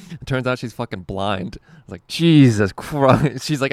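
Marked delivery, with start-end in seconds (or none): 2.1-3.4 loud, slow, drawn-out exclamation; loud, stretched-out Jesus Christ; exasperated exclamation. Retold or imitated. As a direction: blurt it out loud in frustration. Reacting when told to look.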